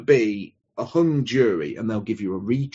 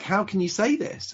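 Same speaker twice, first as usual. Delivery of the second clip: higher-pitched imitation of upset disbelief; imitated upset; 9 semitones higher, 3 dB quieter than usual. Friend retells Laura's reaction to bad news, imitated upset. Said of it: "she was very upset".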